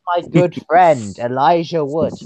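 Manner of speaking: lightly put-on introduction, drawn out in the middle; mock-grand character greeting; Dirk Gently as the Doctor. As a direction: introduce yourself as an eccentric time traveller. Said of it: "I sound like if Dirk Gently was the Doctor".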